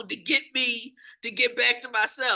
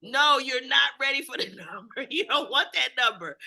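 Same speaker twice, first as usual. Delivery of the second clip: calm talking down; 5 semitones higher than usual. Retold or imitated. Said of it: "and it's like".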